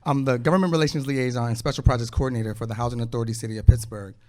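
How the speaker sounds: fast, nervous rattled-off title; rushed nervous introduction. Real, not acted. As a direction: hurry through the job title. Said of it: "Sorry, I'm a little nervous".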